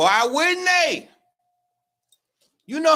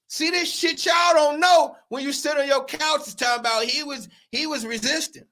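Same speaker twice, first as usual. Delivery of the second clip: raised, heated voice; 3 semitones higher than usual. Real, not acted. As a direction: call out the viewers hard. Ranting at couch judges.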